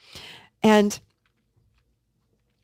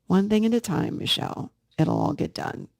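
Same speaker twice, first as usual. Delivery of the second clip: calm inner adult voice; 2 semitones higher than usual. Retold or imitated. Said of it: "I'll hear this voice come in and say".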